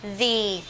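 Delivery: "the" pronounced as a held "thee"; THE before vowel. Shown as a demonstration. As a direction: hold an ee in "the". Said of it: "trước nguyên âm". (đọc "the" thành "đi")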